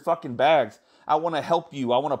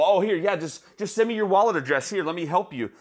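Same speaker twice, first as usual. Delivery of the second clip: mock helpful scammer; 3 semitones higher than usual. Mocking a scammer's offer.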